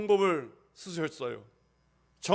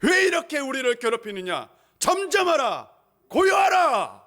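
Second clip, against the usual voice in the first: builds from firm to a high shouted command; commanding rebuke; 6 semitones higher, 4 dB louder than usual. Acted. Jesus commands the sea to be still, building to a shout. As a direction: rise to a ringing command. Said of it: "꾸짖습니다".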